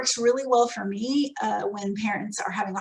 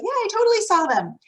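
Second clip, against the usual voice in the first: teacher excuse; 3 semitones higher than usual. Retold or imitated. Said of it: "they'll say".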